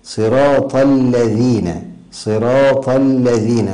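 slow الذين with a true dh, tongue between teeth; tongue-tip dhāl. Shown as a demonstration. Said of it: "تخرج طرف اللسان".

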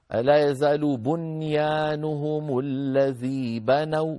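slow, measured recitation with long vowels; Quran recitation. Shown as a demonstration. Teacher quotes a verse as an example, reciting slowly. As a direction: recite the verse with drawn-out, careful articulation.

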